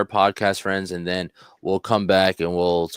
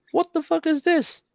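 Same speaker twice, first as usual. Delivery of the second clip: sudden high, stunned curse, imitating the cop; shocked cop. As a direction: spit it out in mock disbelief. Cop stunned by bug walls.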